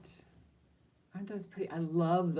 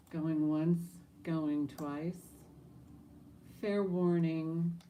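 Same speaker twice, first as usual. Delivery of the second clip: auctioneer; slower than usual. Acted. Auction call before sale.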